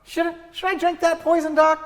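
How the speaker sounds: very high, wide-eyed patient question; naive patient. Retold or imitated. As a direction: play it silly and innocent. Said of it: "would you rather come in and go".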